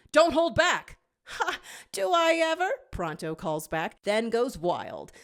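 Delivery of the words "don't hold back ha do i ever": much louder, higher call; rally the squad; battle shout. A narrator's reading. Fighter urges the squad on, loud shout.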